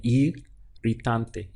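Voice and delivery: irritante with a strong rolled double R. Shown as a demonstration. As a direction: trill the r in irritante, slowly. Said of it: "when you roll straight away".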